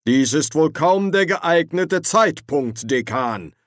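high, slow, stiff reprimand; Ridcully scolding the dean; stern rebuke. Acted. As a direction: reprimand him slowly from above.

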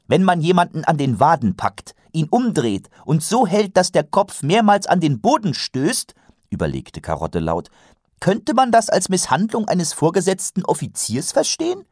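put-on high, guileless young guard; innocently thinking aloud; earnest young man. Karotte's voice held.

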